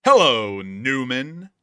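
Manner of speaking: loud mock Jerry greeting; hammed-up Jerry and Newman greeting; Seinfeld greeting. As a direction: sneer the hello.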